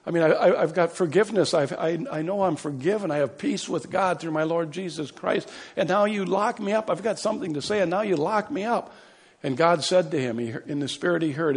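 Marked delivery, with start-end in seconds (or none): 0.1-8.9 crying out to God. Retold or imitated. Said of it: "he cried out to God".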